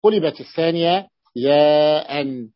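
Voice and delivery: قلبت الثانية ياء said very slowly; slow dictation. Shown as a demonstration. Teacher slowly restating the rule for students. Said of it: "يعني لدينا ثلاث هلم همزات".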